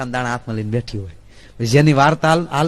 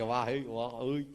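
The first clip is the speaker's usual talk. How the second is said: amazed villager; 4 semitones lower, 11 dB quieter than usual. Acted.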